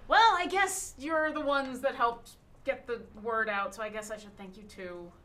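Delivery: hands on hips, brisk and sassy; lightly voiced cheeky cleric; sassy gnome. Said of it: "hands on her hips, and she says".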